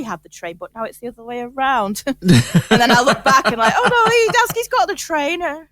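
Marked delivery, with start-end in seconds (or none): 3.8-5.7 mock spooked. Spooked by swapped ornaments.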